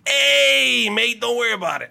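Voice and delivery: high, loud mock Australian-Italian accent; hammed-up Australian-Italian accent, badly faked; Hugh Jackman. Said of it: "How will you adapt your Australian accent to an Italian accent?".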